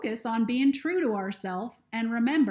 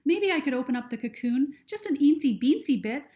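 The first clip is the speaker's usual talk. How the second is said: a lightly voiced young girl, higher, worried; higher girl voice, anxious and unsure; Lucy's voice; 4 semitones higher, 4 dB louder than usual. Lucy speaks in story.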